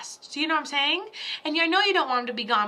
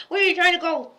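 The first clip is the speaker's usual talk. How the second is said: playful louder scold of the cat; louder teasing call; 5 semitones higher, 7 dB louder, faster than usual. Pretend. Teasing the cat in their game, louder and higher. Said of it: "we play that game a lot".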